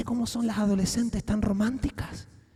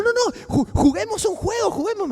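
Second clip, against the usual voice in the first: put-on higher, sing-song talk to a little kid; childlike voice; 11 semitones higher than usual. Coaxing the girl to come home, higher childlike voice. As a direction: coax her like a small child. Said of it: "como una niña pequeña".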